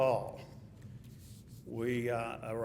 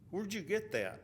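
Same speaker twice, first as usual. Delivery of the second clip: higher-pitched imitated query; retold puzzled question; 6 semitones higher, 4 dB quieter than usual. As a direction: ask it high, as a puzzled friend would. Retold friend puzzled after the fight.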